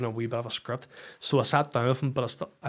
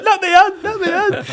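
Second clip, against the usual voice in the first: much higher, louder and urgent; frantic excitement; 14 dB louder than usual. Retold or imitated. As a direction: rush her to check again. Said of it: "I'm like".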